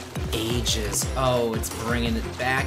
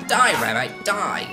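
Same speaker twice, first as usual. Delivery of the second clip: playful loud attack shout; mock battle cry; 5 dB louder than usual. Player attacks a rabbi in the game, mock battle cry. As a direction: pretend fury at a game monster.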